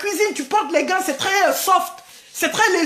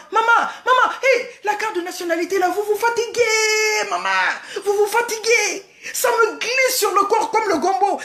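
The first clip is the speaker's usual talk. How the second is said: mocking laugh; 4 semitones higher than usual. Real, not acted.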